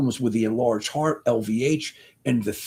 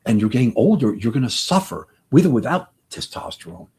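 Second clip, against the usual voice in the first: usual speaking voice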